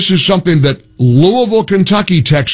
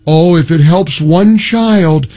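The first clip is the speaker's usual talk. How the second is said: slow, sing-song mock of the texter; drawn-out sarcastic imitation; mocking quote; 3 semitones lower, slower than usual. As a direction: parrot it back with sarcasm. Host mocking texter's reasoning.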